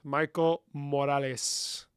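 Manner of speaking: slow, savoring "Michael Morales"; slow savoring repeat; drawn out. Shown as a demonstration. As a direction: stretch "Michael Morales" out lovingly. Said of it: "drawn-out repeat".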